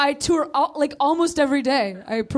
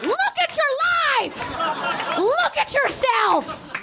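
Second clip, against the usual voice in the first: mock scolding; 7 semitones higher than usual. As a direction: scold them, hammed up. Chastising the audience.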